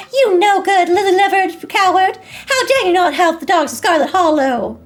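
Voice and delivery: high, loud furious yelling at the mayor; shouted insults. Acted. Dog Lulu yelling insults at Mayor Jimmy, furious shout. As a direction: hurl the insults at him, full volume. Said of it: "as she shouts insults back at Jimmy".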